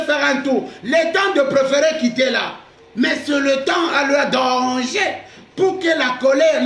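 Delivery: full-voiced sermon delivery; fervent pulpit voice; preaching. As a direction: preach it out to the congregation. Preaching on anger.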